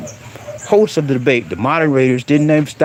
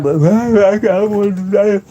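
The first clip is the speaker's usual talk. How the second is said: laughing; 5 semitones higher, slower than usual. Real, not acted. Laughing at his own scolding.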